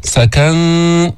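سكن with a light, hidden nasal noon; thin nasalised ending on سكن; light ikhfa. Shown as a demonstration. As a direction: hum the noon of سكن without heaviness. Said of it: "بدون تفخيم الإخفاء".

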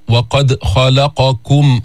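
خلقكم said slowly with the ق open and smooth, no bounce; slow, clean ق in خلقكم without echo; no qalqala. Shown as a demonstration. Teacher contrasting an unbounced letter, slow. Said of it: "لا، القاف هنا مفتوحة".

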